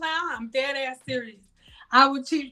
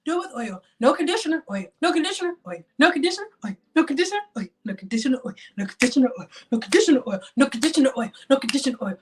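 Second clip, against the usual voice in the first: exasperated repeating; 2 semitones higher, much faster than usual. Retold or imitated. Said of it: "I have been saying".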